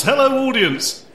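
slow, high, projected stage call; calling to an audience. Pretend. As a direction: greet the crowd from the stage.

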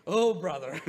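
loud, laughing retake of the grandmother's line; repeating the punchline to the congregation through laughter. Retold or imitated. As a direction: burst out laughing as you say it again. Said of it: "hear this yoga instructor and say".

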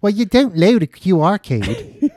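laughing through a teasing comeback; laughing mock retort. Friend mocking the café guy through laughter. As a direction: tease him while cracking up.

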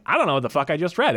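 baffled reader. Retold or imitated. Exasperated quote when reading journals.

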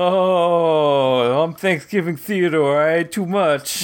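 a hint of an overfed groaner; stuffed full character. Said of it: "Is this a new character?".

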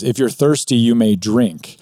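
a hint of a lion, slow on may drink; lion's voice. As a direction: let the lion offer it slowly. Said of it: "this voice".

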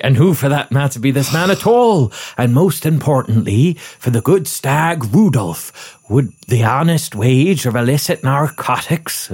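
light West Country burr; West Country accent. Acted. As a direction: read it in a rural West Country voice. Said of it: "West Country".

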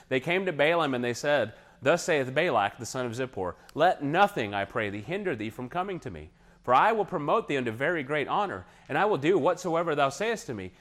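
a hint of a pleading king in the quoted verse; begging king. Preacher reads Balak's plea to Balaam, lightly pleading. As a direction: read the king's plea, rising as he begs. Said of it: "He's just begging".

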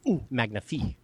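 french chef. Pretend. Savoring beer like a chef.

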